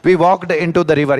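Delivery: slow, word by word; slow dictation. Shown as a demonstration. Teacher dictating the example sentence to students, slow. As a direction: spell it out slowly so students can follow. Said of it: "teacher reads example sentence".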